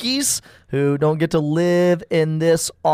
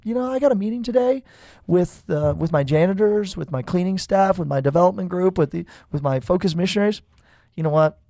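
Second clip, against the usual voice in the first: mock hypocrite. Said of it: "I say".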